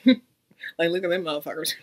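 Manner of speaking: mock snickering between words; imitated snickering. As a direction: imitate onlookers laughing under their breath. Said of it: "like, laughing on their breath".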